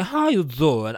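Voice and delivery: exaggerated talk-show catchphrase with slurred 'doing'; Wendy Williams. Host imitating talk-show host's catchphrase, diva impression. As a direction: turn 'doing' into a rounded 'zaw'. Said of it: "like how Wendy Williams".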